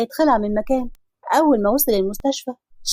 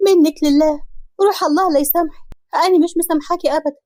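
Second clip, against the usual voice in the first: angry cursing; 4 semitones higher than usual. Acted. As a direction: curse her and refuse forgiveness. Wife cursing the schemer.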